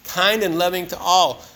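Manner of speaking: "Kind and loving to all" said slowly, each word weighed; repeating the daily review line slowly so it lands; slow emphasis. Shown as a demonstration. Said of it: "Was I kind and loving to all?".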